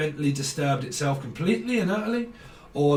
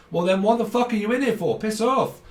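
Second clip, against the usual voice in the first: mock outburst; 6 semitones higher than usual. Retorting to chatty intruder.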